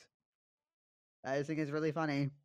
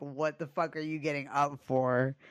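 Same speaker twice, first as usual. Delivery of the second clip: louder, irritated mock demand; retold anger; 5 dB louder than usual. Retelling how she confronted her girlfriend waking up, irritated. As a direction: replay being mad, with a mild edge. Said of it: "that made me more mad".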